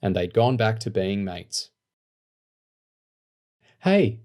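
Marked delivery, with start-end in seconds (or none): 3.8-4.2 sharp, high urgent hey. A narrator's reading. Lauren urgently answering Rat's call, sharp and high. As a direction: call out urgently for news, much higher. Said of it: "Lauren said urgently".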